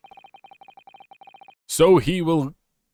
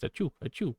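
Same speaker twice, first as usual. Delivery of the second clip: a pair of soft, higher fake sneezes; mock sneezes; 5 semitones higher, 9 dB quieter, faster than usual. Player fakes sneezes for a German joke, mock sneezes. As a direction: sneeze twice, playing it up. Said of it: "a cold in nineteen forties Germany".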